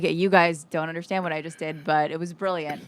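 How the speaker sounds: tossing it off as a private thought; muttered inner monologue. Retold or imitated. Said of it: "does this inner monologue".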